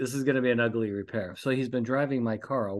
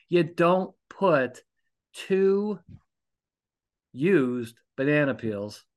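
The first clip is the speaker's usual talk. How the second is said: "You don't put two used banana peels" slowed, hitting each word; slow emphatic scolding; 3 semitones higher, much slower than usual. Real, not acted. Host lecturing about his son's banana peels, slow and emphatic. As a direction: spell out the rule slowly and pointedly.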